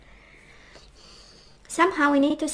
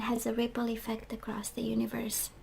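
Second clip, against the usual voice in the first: hoarse whisper, voice going; losing voice; 6 dB quieter than usual. Real, not acted. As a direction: voice fading to a whisper. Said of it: "I'm losing my voice".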